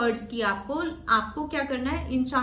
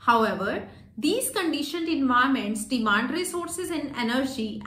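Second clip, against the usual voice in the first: slow, measured reading with pauses at full stops; slow read-aloud demo; much slower than usual. Shown as a demonstration. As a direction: read the paragraph slowly, lengthening words before commas. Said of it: "अब मैं आपको बोल के दिखाऊंगी कि आपको कैसे बोलना है". (धीमी, ठहराव वाली रीड अलाउड)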